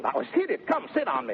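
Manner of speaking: high teasing lines; teasing squeal. Acted. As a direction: toss it up high to mock her. Teasing wordplay in scene.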